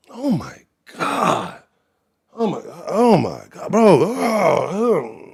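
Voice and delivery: high, groaning dismay; pained disgust. Real, not acted. Reacting to an accent that grates like nails on chalkboard, pained disgust. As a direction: groan as if the sound hurts your ears. Groaning over how those people talk.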